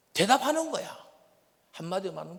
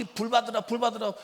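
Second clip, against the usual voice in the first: loud mimicked preacher's cry; mock revival exhortation; 3 semitones higher, 7 dB louder than usual. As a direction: urge the crowd loudly, like a revivalist. Mimics preachers urging fire.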